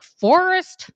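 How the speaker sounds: high, loud cry of his name; mock shrill call of Forrest; mock outraged call. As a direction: call him out in shock. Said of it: "And Molly is like".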